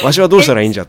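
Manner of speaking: put-on bewildered old man, loud, laughing; creaky wise old man. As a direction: voice a confused old geezer. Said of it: "と、エアコンはなってるわけですよ". (困り果てた老人の声で笑いながら)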